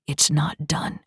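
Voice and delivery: whisper. Acted. Injured man on private link.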